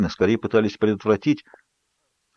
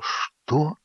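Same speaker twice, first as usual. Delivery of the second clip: a gasped, higher "что" on little air; breathless gasp; 6 semitones higher, 7 dB quieter than usual. A narrator's reading. Jacob gasps at Bella's words, breathless. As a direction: choke out the word in shock. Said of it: "задохнулся Джейкоб".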